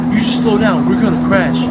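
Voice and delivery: loud, low-pitched yelled warning. Acted. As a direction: bellow it like the crash is coming. Skit passenger panicking.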